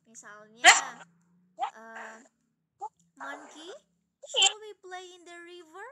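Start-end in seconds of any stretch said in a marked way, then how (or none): 3.2-5.9 "shall we play in the river?" lifted high, rising at the end; questioning intonation. Shown as a demonstration. Teacher models asking a friend, questioning intonation. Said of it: "Jadi gimana intonasi bertanya".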